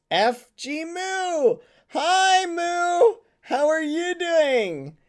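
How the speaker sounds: high squeaky greeting voice; cute anime streamer. Acted. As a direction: squeal a sweet hello.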